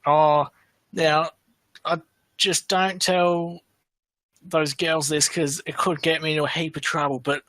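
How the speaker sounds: mock confidential aside that comes out at full voice; failed drunk whisper. Drunk mate confiding in his friend about the girls, failed whisper. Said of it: "trying to whisper, but he was drunk, so he didn't realise he was being loud".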